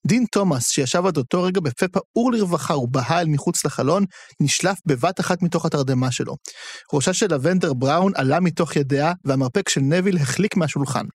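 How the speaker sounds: expressive audiobook-style reading; story narration. A narrator's reading. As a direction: read the scene aloud with lively intonation. Reads novel narration aloud. (הקראת סיפור בהטעמה)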